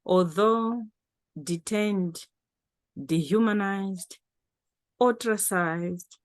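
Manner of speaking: measured poetry reading with long pauses; poem recitation. Acted. Poet sharing a protest poem with an audience, measured recitation. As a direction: recite it solemnly, phrase by phrase, pausing between lines. Reads own poem aloud.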